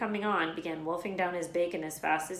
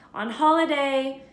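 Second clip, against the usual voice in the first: snapping aunt; 8 semitones higher, 9 dB louder, slower than usual. A narrator's reading. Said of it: "snapped Aunt Petunia".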